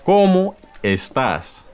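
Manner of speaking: ¿Cómo estás? slowly and high, stress on cómo; slow model greeting. Shown as a demonstration. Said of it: "ways that you would greet somebody".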